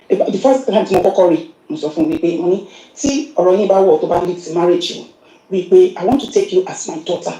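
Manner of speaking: normal talking voice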